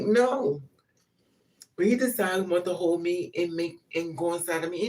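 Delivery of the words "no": sharp loud refusal, pitched up; firm loud no. Retold or imitated. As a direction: shut him down with a loud no. Refusing a man in bed.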